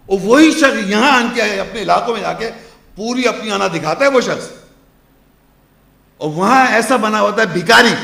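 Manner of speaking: forceful preacher with loud bursts; impassioned preaching. Real, not acted. Preacher contrasting proud man with humbled pilgrim, impassioned preaching. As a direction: drive the contrast home with emphatic surges.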